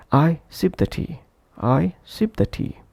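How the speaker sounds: "sip" and "tea" given clear weight; stressed content words. Shown as a demonstration. Teacher giving an example of stressed one-syllable words, "sip" and "tea" emphasized. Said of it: "the sole syllable should be stressed".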